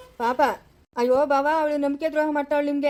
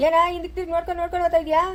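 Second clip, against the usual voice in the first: calling out; 4 semitones higher, faster than usual. Acted. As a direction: snap it after her quickly. Calling after the departing girl.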